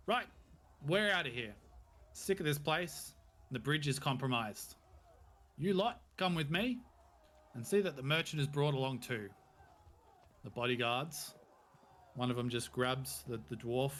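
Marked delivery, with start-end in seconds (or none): 0.1-9.3 loud barked orders; commanding captain. Acted. The captain orders his men to leave the fort, loud command. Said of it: "He goes".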